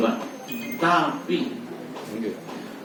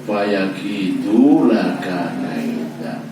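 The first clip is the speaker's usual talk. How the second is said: slow Quranic recitation; much slower than usual. Acted. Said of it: "reciting the Quran verse".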